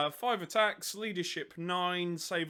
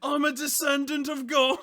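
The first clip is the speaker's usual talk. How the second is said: high, very loud mock proclamation; mock shout; 11 semitones higher, 10 dB louder than usual. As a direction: answer with a comically crazed yell. Acts out the shouting man's answer.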